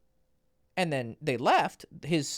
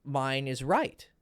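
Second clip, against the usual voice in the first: smug client; 2 semitones higher than usual. Retold or imitated. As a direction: drag out "mine is right" like a stubborn kid. Client insisting he is right.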